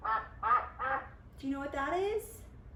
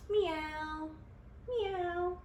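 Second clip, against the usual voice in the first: kitty meow; 5 semitones higher, 4 dB quieter than usual. Shown as a demonstration. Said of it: "A cat?".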